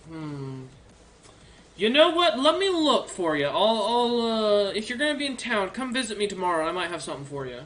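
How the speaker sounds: lightly voiced helpful orc librarian, eager; a friendly old bookkeeper orc, perking up.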